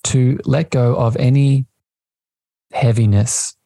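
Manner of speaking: slow meditation voice with long pauses; unhurried, spacious delivery, lingering on key words; guided meditation. Acted. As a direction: guide listeners slowly, phrase by phrase, into the breath.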